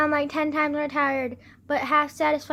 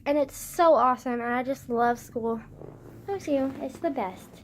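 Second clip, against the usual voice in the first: sarcastic. Real, not acted. Sarcastic about homework.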